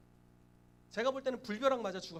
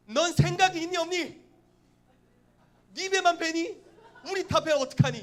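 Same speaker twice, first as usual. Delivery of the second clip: high, loud, mock-furious scolding tirade. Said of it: "막 호통과 막 열불에다가".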